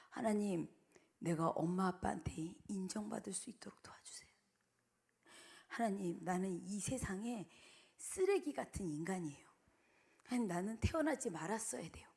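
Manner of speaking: soft, hushed despairing prayer; quiet broken confession; hushed inner prayer. Retold or imitated. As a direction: breathe it as a secret plea. Boy's hidden prayer revealed, hushed.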